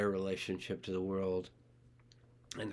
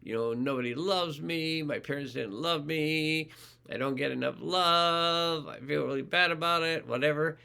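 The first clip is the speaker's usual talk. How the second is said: higher-pitched, hammed-up poor-me whine; mock self-pitying story; 6 semitones higher than usual. Shown as a demonstration. Coach demoing a self-pitying story, mock whiny. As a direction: act out a sorry-for-myself tale. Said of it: "So here's the story".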